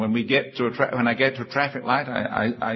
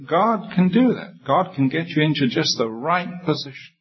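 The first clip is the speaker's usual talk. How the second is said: rising high on God can do that; fervent preacher's lift; emphatic assurance; 6 semitones higher than usual. Real, not acted. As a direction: lift the voice with conviction.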